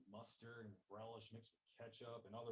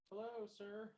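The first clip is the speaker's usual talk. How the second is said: a lightly voiced posh lady, higher; polite posh voice; 11 semitones higher, 3 dB louder, slower than usual. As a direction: greet him politely, a touch posh. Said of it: "a polite and posh voice rang out".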